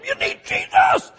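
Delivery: very high, drawn-out holler; zealous mock shout. Evangelist pinning people to the wall, over-the-top shout. Re-enacts his overboard evangelizing.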